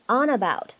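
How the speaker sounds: "on about" run together as "o-nabout"; linking. Shown as a demonstration. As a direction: carry the n of "on" into "about". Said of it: "我们会有一个连读".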